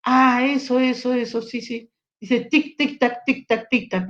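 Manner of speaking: circumlocuting patient. Pretend. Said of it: "me dice".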